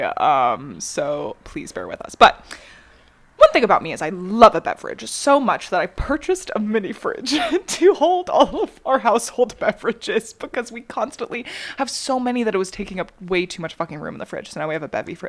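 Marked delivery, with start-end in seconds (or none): 3.4-15.3 commercial voice. Acted. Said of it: "That was such a commercial voice".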